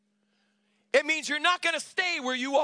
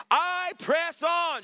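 higher, very slow, loud; emphatic shout; 5 semitones higher, much slower than usual. Real, not acted. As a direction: stretch out I press on. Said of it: "Shout it out loud".

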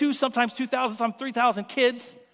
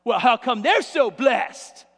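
mock jealous whine; slower than usual. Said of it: "people that are jealous in church".

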